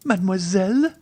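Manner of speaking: affronted, high and rising sharply. A narrator's reading. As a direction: repeat the title in rising disbelief. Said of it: "cried Valentine".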